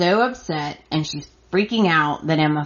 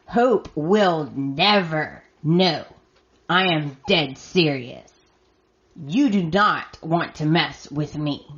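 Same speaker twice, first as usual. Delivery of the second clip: retold menacing threat. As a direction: spell out the warning word by word, lightly acted. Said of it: "he gets in her face".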